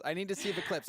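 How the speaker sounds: a test yell into the mic. Shown as a demonstration. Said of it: "Can I yell really quick?".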